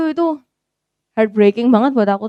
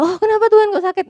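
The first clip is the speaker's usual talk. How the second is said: mock self-pity; 12 semitones higher, 4 dB louder than usual. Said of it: "Jadi tidak kayak menyesal".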